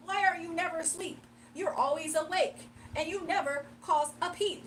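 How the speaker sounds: lightly theatrical rhymed grievance; mock hate poem. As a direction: recite petty complaints like a silly verse. Recites rhymed hate as the hater.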